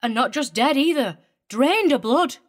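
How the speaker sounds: put-on very high, riled woman with a broad English accent. A narrator's reading. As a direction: rant in a broad, untamed regional accent. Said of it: "her broad accent untamed".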